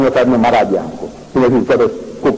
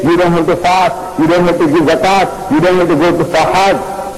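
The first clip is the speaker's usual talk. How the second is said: relentless, repetitive sales-pitch preaching; hammering missionary pitch. Retold or imitated. Missionary works on the Arab chief day after day, hammering away. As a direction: keep hammering each point home in the same insistent tune. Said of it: "hammering away".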